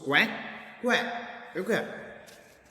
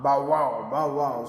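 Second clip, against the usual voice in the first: a light mock bark, a little louder; puppy barking; 4 dB louder than usual. Teacher voicing puppies asking to go out, mock bark. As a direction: bark it out like playful pups. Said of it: "you know, bark".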